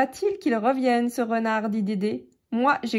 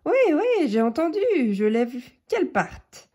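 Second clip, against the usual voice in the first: high, eager little mouse voice; perky mouse, keen to obey; lightly voiced mouse, eager; squeaky mouse; 4 semitones higher than usual. Mouse answers Billy eagerly.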